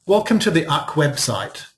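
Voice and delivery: "uck" read as one word; "uck" rhyming with duck, not spelt out; mispronounced acronym. Retold or imitated. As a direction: imitate the reader saying "uck" as a single syllable. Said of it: "Open Book pronounces it as uck".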